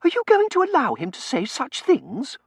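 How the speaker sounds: high, loud appeal in outrage; affronted miss calling for backup; indignant demand. A narrator's reading. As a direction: demand support, voice pitched right up. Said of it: "she demanded".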